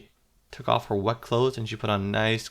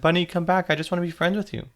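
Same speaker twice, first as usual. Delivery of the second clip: put-on higher, louder little-girl call; 6 semitones higher, 5 dB louder than usual. A narrator's reading. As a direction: call after someone running off. Girl calling after a fleeing bunny.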